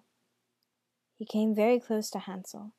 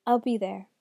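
brave voice; 5 dB louder than usual. Acted. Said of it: "said in his bravest voice".

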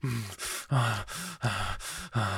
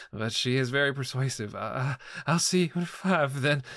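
fake cheerful; 3 semitones higher than usual. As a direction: keep it light with nervous laughs. Cheerful talk with client.

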